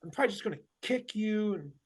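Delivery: halting imitation of terse speech; retold offhand, stop-start delivery; like Morse code. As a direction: dole it out in short bursts with gaps. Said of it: "it was almost like Moss code".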